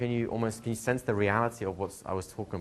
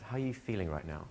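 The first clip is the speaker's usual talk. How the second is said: softly put, understated question; gentle coach's question; 6 dB quieter than usual. Retold or imitated. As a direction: ask it quietly and simply, like a coach.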